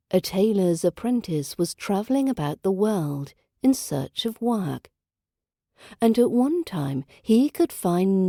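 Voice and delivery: storybook reading with voiced figures; fairy tale narration. A narrator's reading. Narrator reading a Grimm tale to learners, storybook style. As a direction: read the old tale to listeners.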